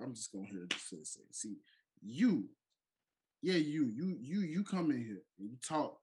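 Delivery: taunting heel promo; wrestling promo. Pretend. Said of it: "bring this in segment style".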